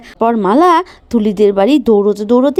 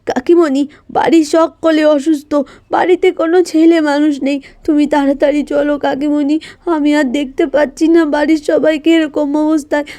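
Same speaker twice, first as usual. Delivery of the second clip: tearful; 2 semitones higher than usual. Acted. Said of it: "তুলি কাঁদতে কাঁদতে বলে".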